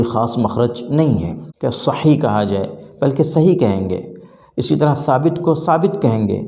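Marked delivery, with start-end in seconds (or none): 4.6-6.4 ثابت said with a plain s, not the Arabic th; plain s sound. Shown as a demonstration. Teacher showing students the Urdu ثابت. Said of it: "سا کو عربی کی طرح اس کے مخرج سے ہم نہیں نکالیں گے".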